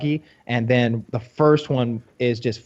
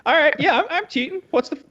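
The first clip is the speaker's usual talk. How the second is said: very high, hammed-up cheater voice; mock Brock Lesnar; 8 semitones higher than usual. Brock asking for the tab, silly high-pitched mock. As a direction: play a breezy big cheat in a silly high voice.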